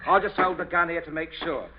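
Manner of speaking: brisk loud orders; loud commanding. Acted. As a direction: bark out the orders.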